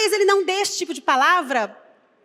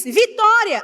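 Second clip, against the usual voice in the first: raised, louder proclamation; prophet's cry; 4 semitones higher, 6 dB louder, slower than usual. Acted. Preacher quoting Jeremiah, who has to shout his message, loudly. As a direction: call it out like a prophet, short of a scream. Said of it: "tenho que gritar".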